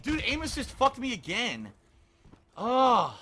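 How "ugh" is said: short, loud exasperated "ugh"; exasperated sigh-groan; frustrated groan. Real, not acted. Frustrated at game.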